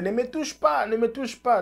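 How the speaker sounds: a light jab in Eto'o's bossy voice; lightly voiced angry president; imitating Eto'o. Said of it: "Samuel Eto'o disait".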